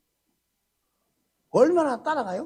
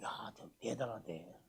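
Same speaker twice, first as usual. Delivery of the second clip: breathy whisper, much softer and slower; whispered aside; 13 semitones lower, 18 dB quieter than usual. Acted. Pastor mocking a stubborn colleague to the congregation, slow whispered aside. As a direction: lean in and whisper it in mock awe.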